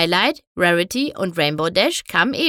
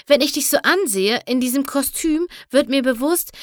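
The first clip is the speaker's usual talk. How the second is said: higher-pitched, sighed remark; Rarity sighing; 6 semitones higher than usual. A narrator's reading. Rarity looks at her friend's costume, sighing. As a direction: sigh it in a raised voice. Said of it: "seufzte Rarity".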